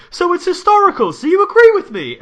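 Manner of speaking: very high, loud, smug gotcha voice; shrill hammed-up mockery; mock Piers Morgan squeal. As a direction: parody a pompous man mishearing in triumph. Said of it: "And Piers Morgan goes".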